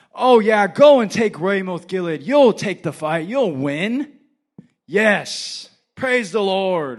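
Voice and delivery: loud, high mock-enthusiastic cheering; over-the-top sarcastic encouragement. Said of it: "He's being sarcastic".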